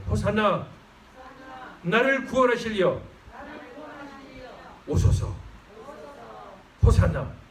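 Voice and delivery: ringing call for the crowd to echo; loud call to repeat. Shown as a demonstration. Preacher leads congregation in crying out Hosanna. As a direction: cry it out for them to follow. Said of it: "저를 따라서 한번 큰 소리 해보세요".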